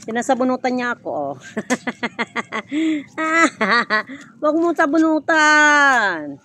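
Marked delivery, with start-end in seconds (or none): 4.4-6.4 scolding call. Real, not acted. Telling off child pulling her hair.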